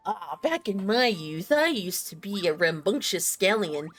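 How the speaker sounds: slowed-down, lightly voiced old man. Streamer imitating old Rex Lapis recalling his youth, old man. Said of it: "the old man".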